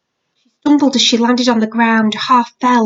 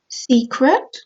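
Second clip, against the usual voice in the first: guilty; 3 semitones higher than usual. Acted.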